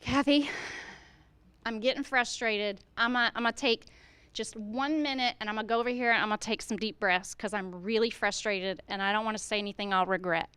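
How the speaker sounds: teacher showing Kathy how to cool down, softly; calm modeling voice. Shown as a demonstration. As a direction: model staying calm while frustrated. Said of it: "how are you modeling the appropriate thing".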